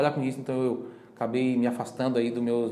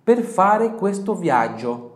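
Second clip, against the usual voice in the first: slow and louder, careful Italian; slow model phrase; 6 semitones higher, 7 dB louder, much slower than usual. Shown as a demonstration. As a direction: lead the students through it. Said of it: "Vamos repetir mais uma vez".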